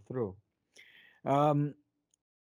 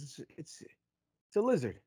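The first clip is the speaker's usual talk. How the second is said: customer voice. Acted. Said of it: "He goes".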